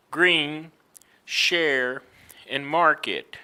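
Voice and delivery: green, share and market with a strong R; emphasized R. Shown as a demonstration. Teacher modelling R inside words, emphatic R in green, share, market. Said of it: "Look at how I emphasize".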